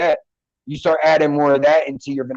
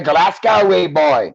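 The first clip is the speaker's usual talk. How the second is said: put-on Scottish accent; 3 dB louder, slower than usual. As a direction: play a Glasgow local. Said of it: "my Scottish accent".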